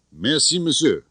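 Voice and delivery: sweetly polite thanks. A narrator's reading. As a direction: overdo the courtesy. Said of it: "very politely".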